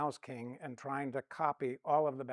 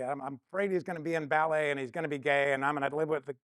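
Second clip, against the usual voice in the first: louder, rushed confession spilling out; anxious father blurting his fears to his wife, louder; blurted-out fear; 2 semitones higher, 5 dB louder, faster than usual. Retold or imitated. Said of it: "I just blurted it out".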